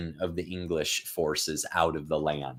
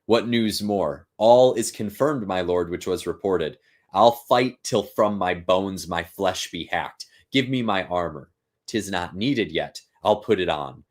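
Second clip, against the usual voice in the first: slow, raised voice for the play's lines; dramatic Shakespeare reading; 4 dB louder than usual. Acted. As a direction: read the scene like a stage actor. Reads Macbeth scene aloud.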